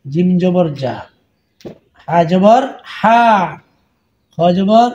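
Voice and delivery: আলিফ জবর আ spelled out clearly, letter, vowel sign, then sound; spelling drill. Shown as a demonstration. Teacher spelling Arabic letters for students, clear drill. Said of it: "বারবার বলে বলে শিখে নেবেন".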